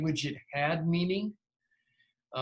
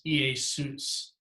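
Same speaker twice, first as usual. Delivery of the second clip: slow Iesus, stressed on the final SUS; stress on the last syllable; 3 dB quieter than usual. Shown as a demonstration. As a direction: put the weight on the end of Iesus. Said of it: "stress the accented syllable".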